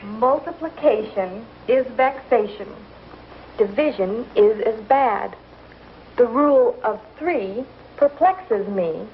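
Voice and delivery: mocking recital. Mother recites school rhyme mockingly.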